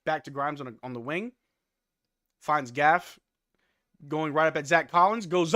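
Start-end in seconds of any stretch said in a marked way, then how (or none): none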